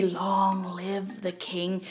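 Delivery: slow, soft, menacing hiss of a whisper; sinister whisper. Retold or imitated. Scar leaning in over Mufasa, slow sinister whisper. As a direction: lean in close and breathe it slowly like a villain. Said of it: "lean in and whisper sinisterly".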